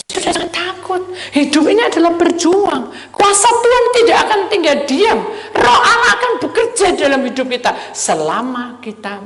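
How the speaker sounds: high, loud exhortation; rally the congregation; preaching at full force. Acted. Preaching climax.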